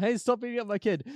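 lightly acted outraged father; mild mock yell. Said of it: "starts yelling".

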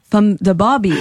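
tentative South Korean impression; South Korean accent. Shown as a demonstration. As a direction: attempt Korean-accented English, word by word. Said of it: "a South Korean".

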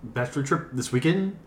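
mock Gen Z upspeak; imitating a Gen Zer. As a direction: ironic zoomer voice, rising at the end. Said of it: "Replicate how he said it".

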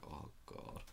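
hushed, low mock groan; barely voiced, low retold groan; retold feeling bad. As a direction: sigh it out very softly, as if too full to move. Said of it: "I just felt really bad".

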